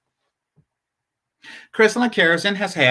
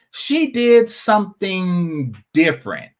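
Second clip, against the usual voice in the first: slow, stretched repeat for suspense; slow and pointed; teasing build-up. Real, not acted. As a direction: draw the words out before the reveal.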